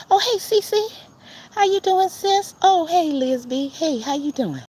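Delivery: high, loud squeals of hello to chat friends; excited greeting. Real, not acted.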